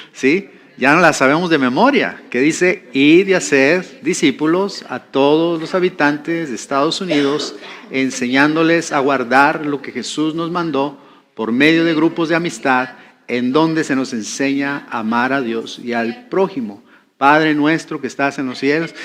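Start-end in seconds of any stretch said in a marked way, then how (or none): 2.9-7.6 measured recital from memory; rote recitation. Shown as a demonstration. Preacher reciting the group's vision from memory, rote recitation. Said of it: "pareciera como que a veces lo repetimos". 7.9-18.9 rote recitation. Shown as a demonstration. Preacher mimicking believers repeating the vision, rote recitation. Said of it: "pareciera como que a veces lo repetimos".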